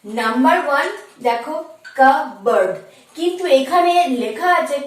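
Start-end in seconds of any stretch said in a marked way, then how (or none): 2.0-2.7 কাবার্ড with the p left silent; correct pronunciation. Shown as a demonstration. Teacher showing students the word, correct pronunciation. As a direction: say কাবার্ড as two beats, no p. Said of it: "আমরা উচ্চারণ করব কা".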